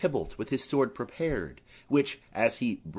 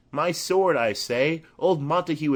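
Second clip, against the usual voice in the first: higher, louder stubborn order; insistent demand; 4 semitones higher, 4 dB louder than usual. Acted. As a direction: insist over his wife's objection. Capulet insisting to his wife.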